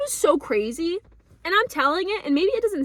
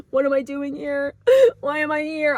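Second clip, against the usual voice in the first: catching breath, half-sobbing; crying out lost in the rain; retold crying. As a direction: gasp through the question in a tearful replay. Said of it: "I'm crying".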